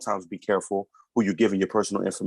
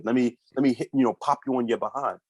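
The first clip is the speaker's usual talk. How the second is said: fast mock threat from an old-school parent; faster than usual. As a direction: rattle off the parent's threats quickly. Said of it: "I'm not just quick to just".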